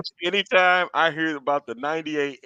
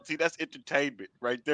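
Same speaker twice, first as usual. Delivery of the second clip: laughing; 4 semitones lower, 6 dB quieter than usual. Real, not acted. Spoken while laughing.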